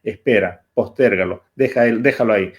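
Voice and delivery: low, measured voice urging delay; inner voice of fear. Acted. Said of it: "Esa voz que te dice".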